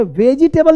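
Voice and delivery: वेजिटेबल with every vowel, "ve-ji-tay-bal"; wrong pronunciation. Shown as a demonstration. Teacher warns learners off this form, mispronounced. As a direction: say वेजिटेबल in four full syllables. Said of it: "नहीं बोलना".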